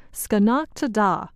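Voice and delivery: put-on Skenoctada said as the old Mohawk name; original Mohawk name. Shown as a demonstration. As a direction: say Skenoctada with an "ah" in the stressed middle. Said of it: "originally called this area".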